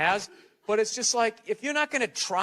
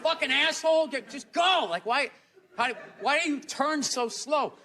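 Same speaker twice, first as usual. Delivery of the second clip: road rage rant; 6 semitones higher than usual. Retold or imitated. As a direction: rant at the car ahead, half laughing. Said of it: "I just found myself just going like".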